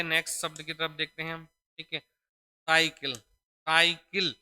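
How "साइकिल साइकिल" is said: साइकिल stretched very slowly, louder; teacher drawing out साइकिल slowly for the class; slow spelling demo. Shown as a demonstration. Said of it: "छोटी बनती है यहाँ पर".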